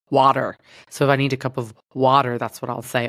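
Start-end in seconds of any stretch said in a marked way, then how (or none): 0.1-0.6 attempted American accent on one word. Shown as a demonstration. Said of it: "how to do an American accent". 1.9-2.4 attempted American accent on the word. Shown as a demonstration. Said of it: "The only thing I can say is".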